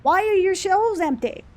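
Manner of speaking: high, slow, whiny customer question; mock whiny customer. Worker mocking a customer about empty shelves, high and whiny. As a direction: stretch it out like a clueless shopper.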